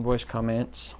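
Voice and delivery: comments stressed on the end, com-MENTS; wrong-syllable stress. Shown as a demonstration. Podcaster using it in context, stress on com-MENTS. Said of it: "use it in context".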